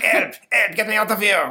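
loud, high panicked yelling; mock shout for help while stuck; cry for help. Ghost stuck in wall.

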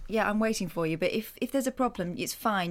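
polite, accommodating. Retold or imitated. Waiting driver to a cross woman in the car park, politely accommodating. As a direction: keep it low and obliging, with a thin polite smile. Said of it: "polite smile that says".

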